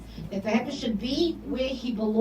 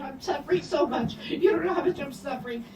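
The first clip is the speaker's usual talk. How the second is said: whiny complaining patient; 4 semitones higher than usual. Retold or imitated. Narrator imitates typical patients moaning to visitors. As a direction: ham up a self-pitying patient. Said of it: "they start to cry and say".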